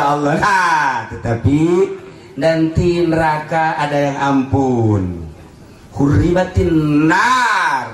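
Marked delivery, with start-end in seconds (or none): 6.0-7.9 slow solemn recitation; slow chanted hadith phrase; recited Arabic. Acted. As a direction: intone the Arabic slowly. Quoting hadith.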